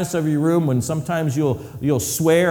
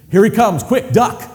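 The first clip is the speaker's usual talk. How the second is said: mock alarm; 5 semitones higher, 4 dB louder than usual. Dodging strong cologne wearer.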